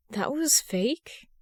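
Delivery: slow, soft desperate question; hushed, slow hope against hope. Acted. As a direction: beg for it to be true, very slowly. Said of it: "a desperate tone in his question".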